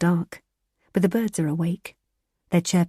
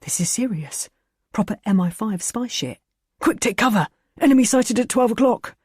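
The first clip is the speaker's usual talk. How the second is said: starts hushed, builds to high loud alarm; mock spy alarm; 5 semitones higher, 3 dB louder than usual. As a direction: play the over-the-top secret agent. The speaker playing spy, comedian.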